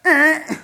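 short, high wordless "eh"; mock insistent prodding sound; imitated nagging noise. Holy Spirit keeps prodding the preacher, high nagging noise.

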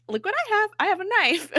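high-pitched, playful boast with laughter creeping in; giggly high mock pride; mock gleeful showing-off. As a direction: imitate someone proudly showing off a find. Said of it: "the look on her face is just like".

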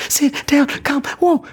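very high squealing commands; over-animated commands. Shown as a demonstration. Handler over-animating every command, squealing very high. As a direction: shriek every cue at the dog. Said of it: "way too animated".

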